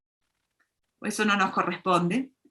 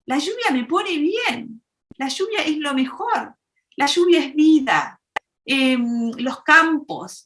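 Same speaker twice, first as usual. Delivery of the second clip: higher, bubbly delight in the rain; happy friend praising rain; 4 semitones higher than usual. Acted. Happy friend explains why the rain delights her, higher and bubbly. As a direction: gush with joy over the rain. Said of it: "amiga que está sonriente, está muy contenta".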